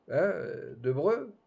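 rising "de Breu?" in disbelief; surprised echo. Acted. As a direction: echo the name as a question.

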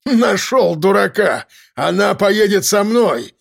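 ranting threats. Acted. Gunman shouting demands.

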